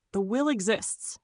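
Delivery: flat. Acted. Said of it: "he said flatly".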